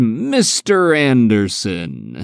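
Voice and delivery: slow, drawn-out imitation of Agent Smith; Agent Smith impression. Podcaster imitating the villain's catchphrase for his co-host, slow and hammy. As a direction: stretch each syllable of "Mister Anderson" like a cheesy villain. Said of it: "the way he says Mister Anderson".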